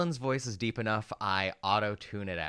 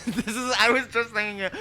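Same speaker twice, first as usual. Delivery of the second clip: laughing; 14 semitones higher, 10 dB louder than usual. Real, not acted. Laughing high outburst.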